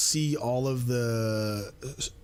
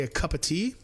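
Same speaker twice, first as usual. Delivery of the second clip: higher-pitched mock British accent; 5 semitones higher, faster than usual. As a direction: put on a playful British accent. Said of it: "if I see somebody say".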